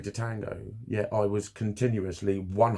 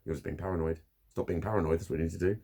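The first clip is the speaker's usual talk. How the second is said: lower, softer condescending "you're just being paranoid"; mock dismissive advice; 6 semitones lower, 6 dB quieter, faster than usual. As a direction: mimic a dismissive know-it-all. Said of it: "what do I do about that".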